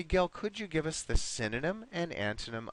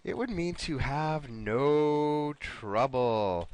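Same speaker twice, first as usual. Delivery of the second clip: slow hint; slower than usual. Shown as a demonstration. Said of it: "Let me give you another hint here".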